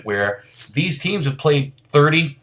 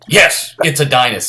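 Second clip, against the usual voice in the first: imitated excited call; 4 dB louder than usual. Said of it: "I remember Gil Santos, the call".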